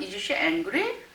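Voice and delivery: slowed, with angry rising at the end; rising question tune. Shown as a demonstration. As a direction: ask it, lifting angry at the end. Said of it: "의문문일 경우".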